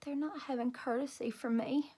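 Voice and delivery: hurt, whispered, close to tears; soft whisper. A narrator's reading. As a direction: whisper it behind your hands. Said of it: "I said real soft".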